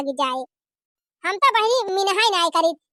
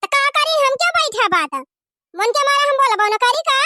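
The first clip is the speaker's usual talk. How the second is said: angry retort; 5 semitones higher than usual. Acted. Daughter-in-law argues back.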